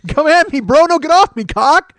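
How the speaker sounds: high furious shout at his own crotch; yelling at it. Retold or imitated. Man yelling at his crotch, furious high shout. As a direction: bark it like a bar fight challenge. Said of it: "Literally, I'm like".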